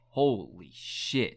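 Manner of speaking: drawn-out, awed disbelief, slowed right down; imitating their jaw-drop, slow and stretched out; stunned slow holy shit. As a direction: let it hang like you just saw a ghost. Stunned brothers hear about third triplet.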